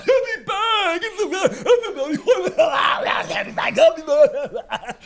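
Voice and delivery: high, loud yells of effort; hammed-up strain, nearly screaming; straining to lift. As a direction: holler while heaving a huge weight. Policeman strains lifting the bag.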